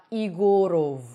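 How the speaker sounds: "Igorov" with no y onset and a full final "ov"; actor's wrong vowels. Retold or imitated. Teacher quoting Simon Pegg's mistake, unreduced vowels. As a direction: begin "Igorov" on a bare "ee". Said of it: "he said".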